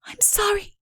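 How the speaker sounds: high, light princess voice. Acted. Princess musing aloud to Udo. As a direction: lift the voice up for the young princess. Whispered apology.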